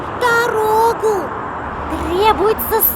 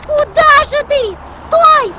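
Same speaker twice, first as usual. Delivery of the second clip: louder, higher alarmed call; calling out to stop; 4 semitones higher, 4 dB louder than usual. Acted. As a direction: call after someone to halt. Calls to stop girl crossing. (окрик, чтобы остановить)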